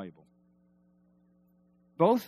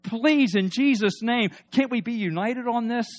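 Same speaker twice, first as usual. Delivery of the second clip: impassioned plea; 8 semitones higher, 7 dB louder than usual. Real, not acted. Pleading for unity.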